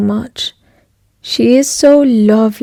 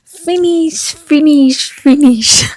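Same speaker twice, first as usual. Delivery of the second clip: quoting a singer; 4 semitones higher, 3 dB louder, slower than usual. Retold or imitated. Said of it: "that clip from a singer".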